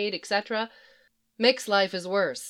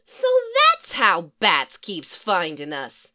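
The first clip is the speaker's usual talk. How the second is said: cross Harley; 5 dB louder than usual. Acted. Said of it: "she muttered crossly".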